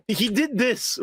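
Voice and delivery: slow put-on Modok voice; slow, strange villain voice; imitating Modok. Shown as a demonstration. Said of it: "when he's like".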